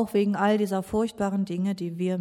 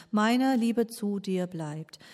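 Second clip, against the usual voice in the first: slow assurance; much slower than usual. Acted. Preacher's assurance of love.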